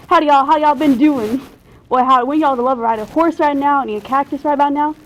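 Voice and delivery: a lightly put-on, clumsy Texas accent; bad Texas accent. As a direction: play a city kid faking a Texas accent. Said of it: "I've been working on my Texas accent".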